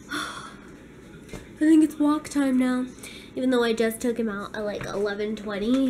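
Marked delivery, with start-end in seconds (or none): 0.1-2.9 dog's voice. Retold or imitated. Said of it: "he's just laying there like".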